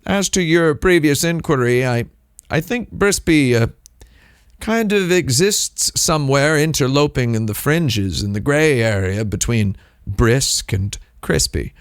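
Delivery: lofty, pompous explanation; mock formal. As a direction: play the pedantic scholar. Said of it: "I said".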